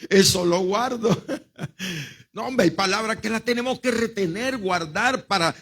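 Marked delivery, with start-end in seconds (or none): 0.1-1.2 chuckling through the words; amused. Real, not acted. Preacher enjoying his own joke with the congregation, amused. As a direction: say it with a little laugh.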